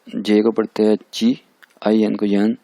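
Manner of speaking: slow, spelled-out rule; slow teaching pace. Shown as a demonstration. Teacher slowly spelling out a pronunciation rule. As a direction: lay out जे को पढ़ते हैं ची slowly. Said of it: "हम pronounce करेंगे इसको".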